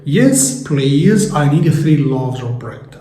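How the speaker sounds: slow, clear polite answer; slow modelled reply. Acted. Child answering the parent at dinner, said slowly. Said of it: "هترد عليه تقول له إيه".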